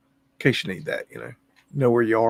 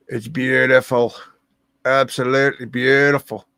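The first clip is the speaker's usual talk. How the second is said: Trump impersonation; 5 dB louder than usual. Acted. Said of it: "That's my best Trump impersonation".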